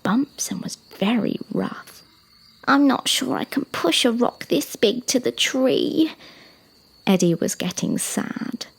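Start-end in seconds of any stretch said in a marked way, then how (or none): 2.7-6.1 put-on slightly high child's voice, unsure; lightly voiced little giraffe, doubting; doubtful young giraffe. Young giraffe facing a big rock, lightly voiced doubt.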